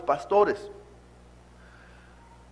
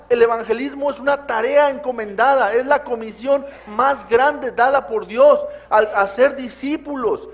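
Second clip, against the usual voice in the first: louder and higher, hammering each claim; preaching at full force; 3 semitones higher, 5 dB louder than usual. Acted. Pastor urging his congregation that evangelism is not optional, preaching at full force. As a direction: preach it like a rising sermon climax.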